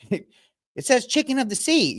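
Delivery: high, slow airhead voice; mocking a famous dumb line; mock ditzy quote. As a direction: drag it out like a clueless starlet. Mocking a pop singer's famous line.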